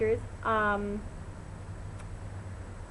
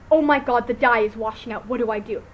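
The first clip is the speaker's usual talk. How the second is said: panicked; 6 dB louder than usual. Retold or imitated. Panicked reaction to blue water.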